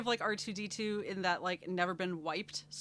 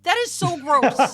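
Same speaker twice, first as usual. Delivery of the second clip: disgusted, drawn out; 6 semitones higher, 12 dB louder, slower than usual. Real, not acted. Repeated, slower and louder.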